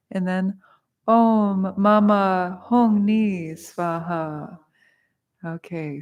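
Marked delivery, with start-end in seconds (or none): 1.1-4.6 slow, drawn-out intoning; mantra recitation. Shown as a demonstration. Teacher leading the shorter mantra for students, slow chant. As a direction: hold each syllable evenly for the group. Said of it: "Repeat after me".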